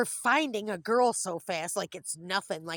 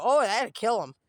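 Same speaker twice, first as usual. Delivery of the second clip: louder, lightly acted warning; mock alarmed warning; 3 semitones higher, 7 dB louder than usual. Food pantry people objecting to bread for ducks, mock alarm. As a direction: imitate a busybody's loud objection.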